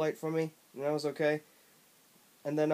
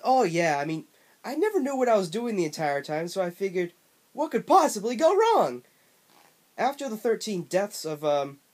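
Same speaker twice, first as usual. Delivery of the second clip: smug, brash and pitched way up; obnoxious Bubsy voice; 3 dB louder than usual. Acted. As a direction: ham up an obnoxious cartoon cat. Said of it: "had the most obnoxious voice I've ever heard".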